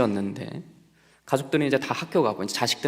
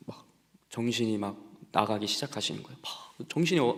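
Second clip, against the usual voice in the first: ordinary delivery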